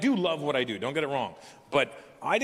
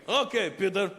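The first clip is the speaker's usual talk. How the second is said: higher giggly Russian plumber; giggling Russian accent; 6 semitones higher than usual. Retold or imitated. Plumber ignores his correction, giggling in a Russian accent. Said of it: "giggle like little kids".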